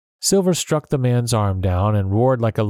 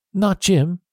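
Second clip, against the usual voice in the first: higher, startled little question; surprised; 9 semitones higher than usual. A narrator's reading. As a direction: catch your breath at the name.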